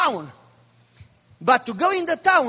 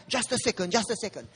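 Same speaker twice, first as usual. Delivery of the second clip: offhand brush-off; 2 semitones lower, 8 dB quieter, faster than usual. Retold or imitated. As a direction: mimic a distracted husband stalling, quietly. Brushing off wife's nagging to leave.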